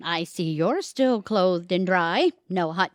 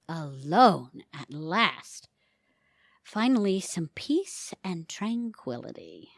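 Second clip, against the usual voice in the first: relieved calm; 3 semitones lower, slower than usual. Acted. Wife relaxing after busy day.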